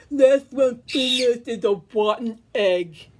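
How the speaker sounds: talking through a mouthful of sandwich; mouth full of food. Acted. Wally chewing his sandwich, talking with mouth full. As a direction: say it round a big bite. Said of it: "He talked with his mouth full of food".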